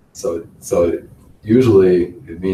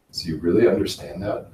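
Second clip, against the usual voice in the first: doubtful question, rising at the end. Shown as a demonstration. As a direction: question whether they really understand. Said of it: "The other is the questioning".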